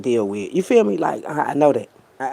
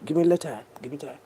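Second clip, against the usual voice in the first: fighting tears; much faster than usual. Real, not acted. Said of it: "these gangsters start crying".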